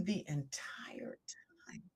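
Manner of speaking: slow whispered reassurance. Retold or imitated. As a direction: breathe it like a secret promise.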